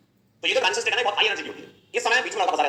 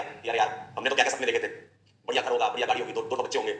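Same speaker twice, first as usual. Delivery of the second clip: lower, softer mock-dreamy lament; wistful heartbroken boy; 6 semitones lower, 5 dB quieter than usual. Boy mourning the dreams he had with his girlfriend, softly and wistfully. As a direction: sigh over the lost dream future, half-joking.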